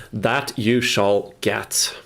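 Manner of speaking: slow, mock-solemn promise; drawn out like a grand pledge. Promising viewers some action.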